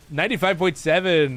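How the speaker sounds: lightly voiced radio DJ; a touch of station-ID delivery. Streamer naming their own station, light radio DJ voice. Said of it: "it's also like radio D J".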